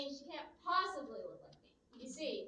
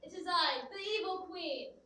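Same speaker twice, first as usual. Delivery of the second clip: slow theatrical villain menace; 4 semitones higher, 5 dB louder, slower than usual. Acted. Villain reveal.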